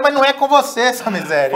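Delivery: high, loud, laughing protest; acted exasperated retort. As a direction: push back loudly through amusement. Exasperated retort after excited book question.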